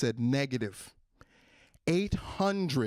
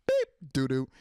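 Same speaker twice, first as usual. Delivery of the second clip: card machine beep. Retold or imitated. Card machine refusing a shopper, beeped refusal. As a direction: imitate a card reader declining. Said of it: "the machine is saying doo-doo".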